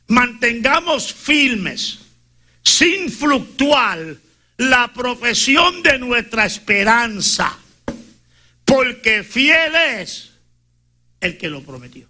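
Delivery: very slow, weighty reading of the verse; solemn sermon recitation, slow and deliberate; scripture reading. Acted. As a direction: lay each phrase down slowly, for emphasis. Reads Hebrews 10:23 aloud.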